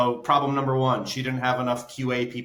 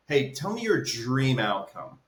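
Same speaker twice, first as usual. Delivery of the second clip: "dream outcome" said slowly, each word leaned on; slow down and weight "dream outcome" so it lands; emphasized words; 2 semitones higher, slower than usual. Shown as a demonstration. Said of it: "I emphasize the words".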